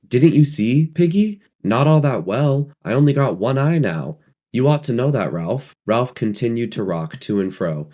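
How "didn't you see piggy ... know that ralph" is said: high, loud agitated question; feverish excitement. A narrator's reading. Piggy answering Ralph with feverish excitement. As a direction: pitch it up, feverish. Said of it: "loathing, and ... feverish excitement".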